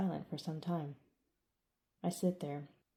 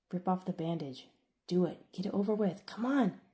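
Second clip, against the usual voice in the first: self-urging build; 2 semitones higher than usual. Acted. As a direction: psych yourself up, rising to the last words. Urging himself to strike.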